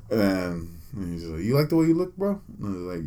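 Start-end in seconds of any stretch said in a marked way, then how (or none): 1.4-2.4 higher, teasing question in a put-on Mexican accent; mock Mexican accent. Comedian teases the fan about his looks in a mock Mexican accent. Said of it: "like, Mexican type accent".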